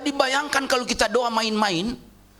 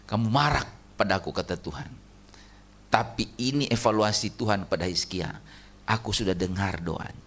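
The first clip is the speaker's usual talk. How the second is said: voice of God; 10 semitones lower, 4 dB quieter than usual. Acted. God's words voiced softly.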